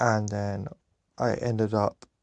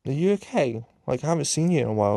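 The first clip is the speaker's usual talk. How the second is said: higher-pitched, quick concerned questioning; lightly acted concern, pitched up; imitated concerned check-in; 5 semitones higher, much faster than usual. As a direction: mimic a support worker checking in. Support worker checks on student.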